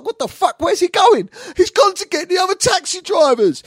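high, loud, frantic disbelief; hammed-up panic, voice shooting up; alarmed yell. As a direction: shout it in mounting alarm. Acted alarm at driver running off.

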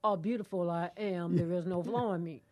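firm declaration. Shown as a demonstration. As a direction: proclaim it back at the enemy. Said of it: "I need to learn to tell him".

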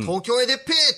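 Tochigi dialect shout. Shown as a demonstration. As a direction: kick it off in hearty Tochigi dialect. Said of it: "栃木弁でガッて言って勢いつける".

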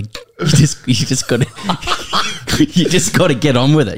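lightly mock a whiny punter; whiny fan. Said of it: "who says".

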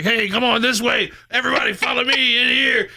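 high, sly lure into the trap; sneaky lure voice. Retold or imitated. Kid voicing toy soldier luring enemies, high sly call. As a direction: coax the bad guys in, high and sneaky.

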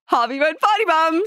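put-on high, fairly loud toddler voice; imitated gleeful toddler. Mother quoting her toddler after he farts, gleeful child voice. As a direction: crow it like a small child. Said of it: "starts laughing and looks at me and he said".

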